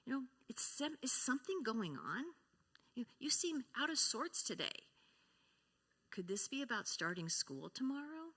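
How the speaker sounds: soft, concerned question; gently asking a whiny child; a mother softly checking on her six-year-old; gentle tuned-in mom. Retold or imitated. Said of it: "her mom had the wisdom to say".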